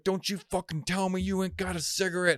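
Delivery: high-pitched mock indignation; angry homeless guy. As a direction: imitate an outraged street panhandler. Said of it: "And he's like".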